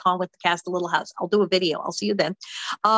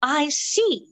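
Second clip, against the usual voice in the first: put-on British accent. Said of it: "I've been British all week".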